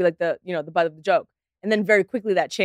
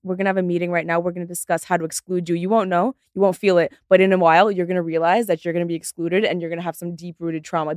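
passive-aggressive LA. Retold or imitated. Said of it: "L A is more like".

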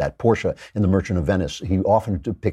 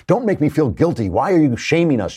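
higher-pitched mock protest; mock complaint; 5 semitones higher than usual. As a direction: imitate an indignant, guilt-dodging complainer. Voices the left complaining.

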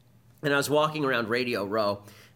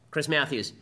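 ordinary delivery

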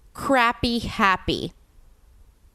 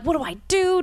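panicked self-quote; 9 semitones higher than usual. Retold or imitated. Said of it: "And I'm like".

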